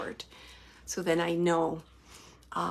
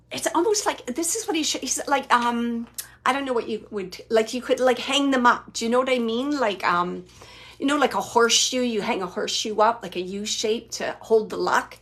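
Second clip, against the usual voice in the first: excited rush; 6 dB louder than usual. Real, not acted. Medium excitedly explains grandpa's message.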